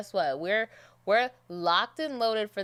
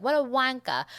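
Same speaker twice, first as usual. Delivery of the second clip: mock British jibe, a bit louder and higher; British accent; 5 semitones higher, 5 dB louder than usual. Imagined viewer laughing at her accent episode, mock British accent. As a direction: jeer it in a put-on British accent. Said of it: "laughing at this girl, like".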